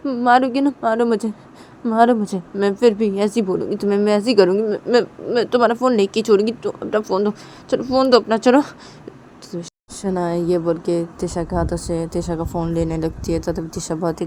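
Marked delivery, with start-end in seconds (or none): 0.1-8.6 high, goading dare; daring taunt. Retold or imitated. Shanaya daring Tisha to hit her, high taunting voice. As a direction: challenge her to hit you. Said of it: "Shanaya बोलती कि".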